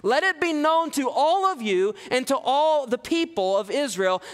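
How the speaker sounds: high, ringing proclamation that slows on the accusation; bold declaration. Shown as a demonstration. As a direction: announce it fearlessly to the council. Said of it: "Peter has no fear whatsoever in declaring".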